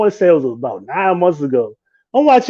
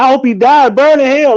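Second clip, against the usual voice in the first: mock hateful; 8 semitones higher, 4 dB louder than usual. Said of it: "most people was like".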